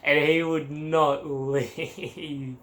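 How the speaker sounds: slow, drawn out with a laugh; laughing exasperation. Real, not acted. Exhausted traveller laughing that the chatty guy would not leave. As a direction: stretch it out, laughing helplessly. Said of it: "am I exhausted".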